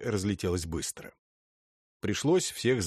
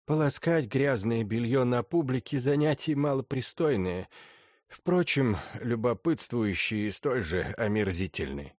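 lightly voiced stern old lady; a hint of an imperious grande dame; haughty old princess; 3 semitones higher than usual.

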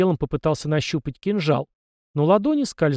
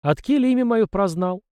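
put-on higher, hard demanding old man; harsh question; 7 semitones higher than usual. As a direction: demand it sternly. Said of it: "жёстко спросил он". (жёстко, требовательно)

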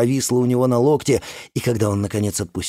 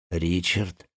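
softer careful address; cautious; 3 semitones lower, 5 dB quieter than usual. Acted. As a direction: say his name carefully. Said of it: "осторожно произнёс Александр". (осторожно)

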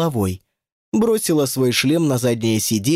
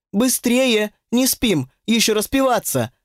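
drill sergeant shout; 7 semitones higher than usual. A narrator's reading. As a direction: drive the kids like a corporal. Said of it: "подгоняла их, будто капрал". (громкие команды, выше и громче, как капрал)

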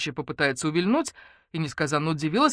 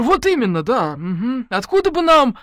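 higher, louder, eager; eager agreement; 7 semitones higher, 8 dB louder than usual. Acted. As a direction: pile on keenly. (охотно, с жаром)

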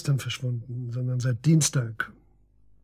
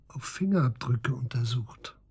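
whisper; 3 semitones lower, 5 dB quieter than usual. Acted. Detective lowers her voice.

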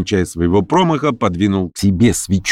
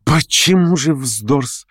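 slow, raised questioning retort, rising at the end; challenging; 8 semitones higher, much slower than usual. A narrator's reading. Lame man picks up Verkhovensky's remark, challenging. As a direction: pounce on the remark with a drawn-out question. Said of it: "тотчас же подхватил Хромой".

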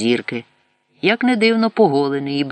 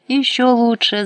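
high and loud, suddenly glad; delighted; 11 semitones higher, 5 dB louder than usual. A narrator's reading. Van greets the hryvnias with a high, loud, glad cry. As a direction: brighten at the money. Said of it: "зрадів Вань".

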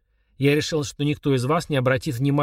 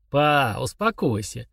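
soft, gentle; slower than usual. Acted. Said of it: "мягко произнёс Артур".

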